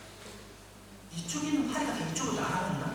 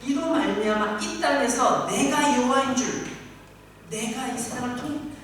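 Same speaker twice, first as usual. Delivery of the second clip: loud, proclaiming voice of God; God proclaiming himself to Egypt; God declaring; 3 semitones higher, 5 dB louder than usual. Acted. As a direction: thunder it out, then drop. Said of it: "이렇게 말씀하시는 것입니다".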